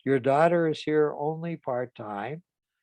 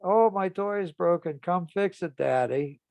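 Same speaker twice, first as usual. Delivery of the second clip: put-on higher, childlike plea; lightly voiced small child whining about a broken toy; little daughter's voice; 5 semitones higher than usual. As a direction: voice a four-year-old asking Daddy for help. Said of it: "and said to her father".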